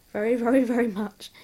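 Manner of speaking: laughing gratefully; laughing thanks. Real, not acted. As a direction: laugh through the thank you.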